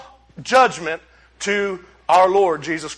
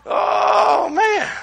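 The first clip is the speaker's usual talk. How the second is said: high exclamation; 11 semitones higher than usual. Real, not acted. Dismay at imagined scene.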